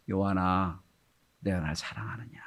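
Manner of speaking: soft whispered call of Jesus; tender whisper. Acted. Jesus calls Peter by the shore, tender whisper. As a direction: whisper the question gently. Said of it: "부르시죠".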